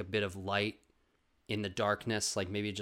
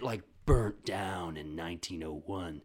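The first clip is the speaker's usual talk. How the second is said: ordinary talk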